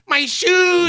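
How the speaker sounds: high, laughing mock shout; mock outraged shout. Joking about his lost shoes, a high mock shout. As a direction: wail it like a comic tantrum.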